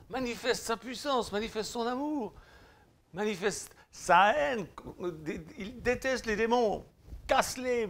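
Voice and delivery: loud, fervent preacher pounding every phrase; rally the flock with a booming sermon; preaching at full force. Acted. Preacher urging his listeners to act, loud and fervent.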